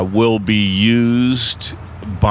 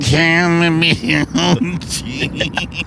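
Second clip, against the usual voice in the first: alien voice; 4 semitones higher, slower than usual. Shown as a demonstration. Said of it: "It either sounds like an alien".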